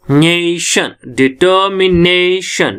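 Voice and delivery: "नेशन" then "डिटर्मिनेशन", both with a long, stressed "ने". Shown as a demonstration. Teacher shows where stress falls, leaning hard on "ने" in "डिटर्मिनेशन". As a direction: press and stretch "ने" in "डिटर्मिनेशन". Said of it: "न पे stress पड़ रही है".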